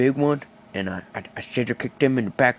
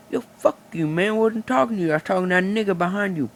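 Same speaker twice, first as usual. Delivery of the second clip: higher, fast-ish mock tough-guy snap; mock tough retort; 7 semitones higher, faster than usual. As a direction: play the tough kid, pushing the pace. Kid retorts at the shopper.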